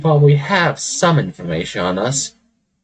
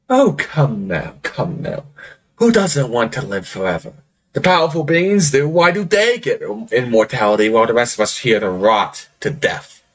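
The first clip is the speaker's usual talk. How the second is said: cajoling Pirate King. Acted. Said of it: "he looks at you and is like".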